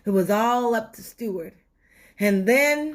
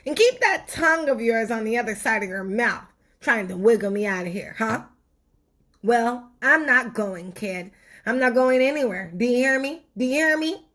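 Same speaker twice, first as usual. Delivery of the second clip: defiant tooth; 3 dB louder, faster than usual. Acted.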